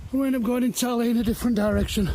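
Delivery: puffing between words after the climb; out of breath. Real, not acted. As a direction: talk while still winded. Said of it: "just catching my breath".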